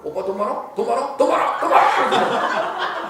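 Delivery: repeated question climbing to a high shout; escalating nagging. Acted. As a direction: build from talk to a drawn-out comic yell. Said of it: "근데 이 사람이 안 들으면".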